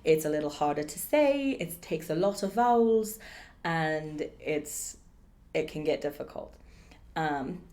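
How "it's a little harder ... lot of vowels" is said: lightly put-on posh British; posh British accent. Shown as a demonstration. Teacher trying a silly long word, posh British accent. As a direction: lift it into a high-society British accent. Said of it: "bring it up into the accent".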